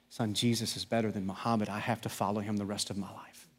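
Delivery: soft, low and earnest; hushed earnest quote. Retold or imitated. Preacher quietly voices father telling son his faith, hushed. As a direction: drop the voice to a reverent hush.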